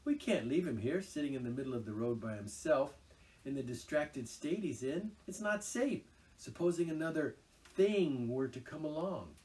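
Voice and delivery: mildly anxious. A narrator's reading. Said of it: "asked Mole anxiously".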